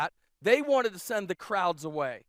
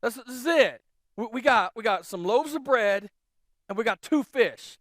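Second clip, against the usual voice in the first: louder, higher, a touch of panic; anxious disciples; 3 semitones higher, 5 dB louder than usual. Retold or imitated. Disciples pleading with Jesus about too little food, worried. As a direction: worry about the tiny food supply. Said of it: "Like, like".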